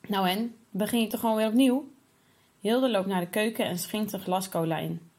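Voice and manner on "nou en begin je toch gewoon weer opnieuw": careless, dismissive sister's tone; offhand shrug. Acted. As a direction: brush it off like it's nothing. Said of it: "op hetzelfde toontje als Hilde net deed".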